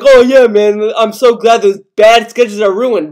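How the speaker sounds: loud mock-cheerful sarcasm, saying the opposite; joking sarcasm. To viewers, joking about ruined sketches, mock glad. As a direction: fake gladness, laid on thick. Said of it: "yeah, jokingly".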